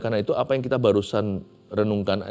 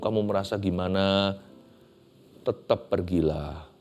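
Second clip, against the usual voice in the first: patient God. Acted. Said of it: "Tuhan nggak ngamuk, Tuhan nggak marah".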